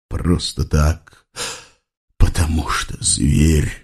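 low, slow bitter mutter; grumbling officer. Acted. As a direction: grumble it under the breath. (низкое ворчание офицера)

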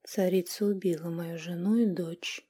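soft whispered statement; plainly stated. A narrator's reading. Brother quietly telling of his murdered family. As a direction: say it simply, hushed. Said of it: "просто ответил магребинец".

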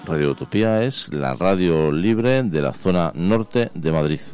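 slow, deliberate announcer read; measured radio promo voice; radio station ident. Acted. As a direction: announce the station, spacing out each phrase.

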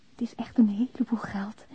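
hushed confiding whisper. Acted. Woman confessing to Philip in her letter, whispered. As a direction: breathe it out as a secret.

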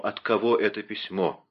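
ordinary delivery

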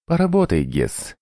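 high-pitched order to an underling; commanding. A narrator's reading. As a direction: order the torturer to work. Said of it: "велел он". (повелительно)

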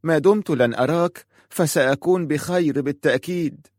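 عتاب ممتعض بصوت أعلى; resentful. A narrator's reading. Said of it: "قالت في امتعاض".

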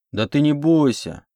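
протяжно и миролюбиво, чуть выше; успокаивай её нараспев; миролюбиво протянул. A narrator's reading. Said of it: "миролюбиво протянул детина". (детина миролюбиво тянет слова пленнице)

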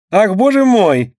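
high, slow startled gasp of a lady; exclaiming. A narrator's reading. A guest startled by a squealing child, exclaiming. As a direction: act jolted by a child's squeal. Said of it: "восклицала та".

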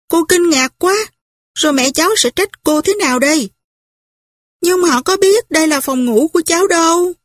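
a flustered aunt tut-tutting, lightly voiced; a lightly voiced flustered aunt scolding; fussy old aunt. Narrator voices fussy aunt Pitty.

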